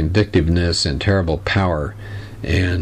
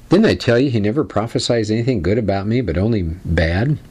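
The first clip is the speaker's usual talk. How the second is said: whiny; 2 semitones higher than usual. Retold or imitated. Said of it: "the king sounds kind of whiny here".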